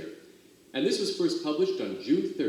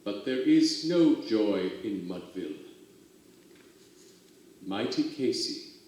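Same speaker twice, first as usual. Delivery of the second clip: somber ending; 3 semitones lower than usual. Acted. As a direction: let the final loss sink in. Sad ending of poem.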